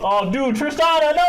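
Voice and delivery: high, loud horrified protest; dismayed outcry. Real, not acted. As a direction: cry out in disbelief. Dismayed at a draft pick.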